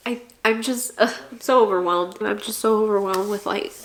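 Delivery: real tears pushing through the words; getting emotional. Real, not acted. Telling her viewers how overwhelmed she is, voice breaking. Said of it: "I'm getting emotional".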